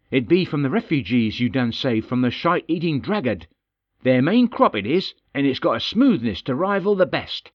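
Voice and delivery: lightly voiced dwarf, pleased with his pipe leaf; dwarf Holdergoz. Holdergoz telling his king about the refugee crop, lightly voiced dwarf.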